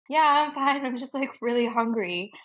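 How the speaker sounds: nervous cover-up. Retold or imitated. She covers her embarrassment.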